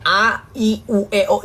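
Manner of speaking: mock kindergarten teacher. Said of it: "balik lagi yuk ke T K".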